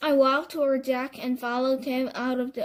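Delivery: plain reading voice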